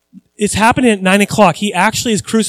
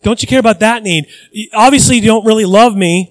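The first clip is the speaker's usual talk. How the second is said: louder, pleading and aggrieved; mock complaint to God; 2 semitones higher, 5 dB louder than usual. Believer complaining to God that he's unloved, aggrieved and loud. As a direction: whine at God that he doesn't care.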